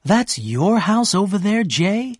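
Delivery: Daisy thrilled at the sight, pitch rising; excited cry. A narrator's reading. Daisy seeing Gatsby's house, excitedly asking. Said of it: "she cried excitedly".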